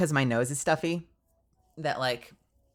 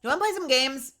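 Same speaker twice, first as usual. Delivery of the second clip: sing-song invite; 10 semitones higher than usual. Real, not acted. Inviting viewers to play.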